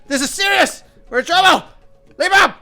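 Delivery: very high, loud, frantic yell, fake British accent gone; a fake-fancy goblin loses his British accent in terror; panicked shout, accent dropped. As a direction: drop the posh act and scream in panic. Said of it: "his British accent goes away".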